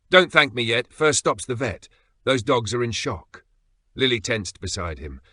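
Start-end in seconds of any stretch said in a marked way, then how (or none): 0.1-3.5 curt, no-nonsense; brisk and sharp. Acted. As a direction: snap it out firmly. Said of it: "sharp, unreadable".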